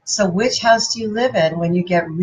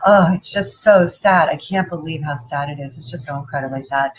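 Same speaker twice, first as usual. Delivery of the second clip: sad house person; 4 semitones lower than usual. Retold or imitated. Imitating the sad house people for the audience, lightly mopey and low. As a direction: sigh it out like a mildly gloomy news-watcher. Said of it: "they talk like this".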